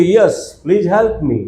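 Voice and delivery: very slow, the whole sentence in one breath; slow model sentence. Shown as a demonstration. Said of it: "શું કહેવાય?".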